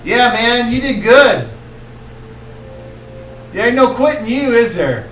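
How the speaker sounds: a mellow stoner compliment; stoner druid. Acted. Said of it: "he's like".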